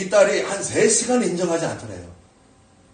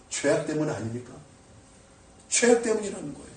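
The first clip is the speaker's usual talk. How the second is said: ordinary talk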